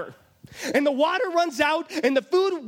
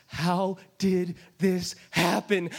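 lost mother; 5 semitones lower, slower than usual. Acted. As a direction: ask it slowly as if in shock. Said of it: "She is lost".

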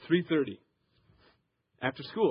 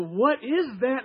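disgusted surprise; 8 semitones higher, 5 dB louder, much slower than usual. Retold or imitated. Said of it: "And I go".

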